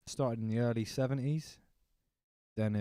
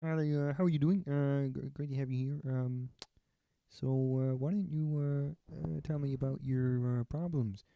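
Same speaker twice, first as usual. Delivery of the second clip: a nervous frog therapist, higher; 5 semitones higher than usual. Retold or imitated. Kermit as a therapist asking about problems, high frog voice. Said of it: "Kermit's a therapist".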